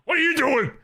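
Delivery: high, indignant "What are you doing?"; outraged question. Real, not acted. Ranting at the rival gang, outraged high question.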